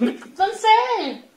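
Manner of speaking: speaking between bites of noodles; words with food nearby; talking while eating. Real, not acted. Seen 0: Woman talks holding chopsticks, then puts noodles into her mouth.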